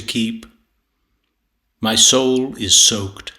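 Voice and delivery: slow, measured verse recitation with deliberate pauses; poetry reading. Acted. Poet reading a sonnet on time and tears, measured recitation. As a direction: recite it deliberately, weighing each phrase. Reads own poem aloud.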